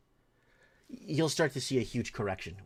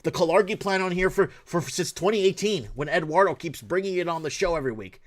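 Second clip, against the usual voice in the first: heated retort; 4 semitones higher, 4 dB louder than usual. Retold or imitated. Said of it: "I'm like".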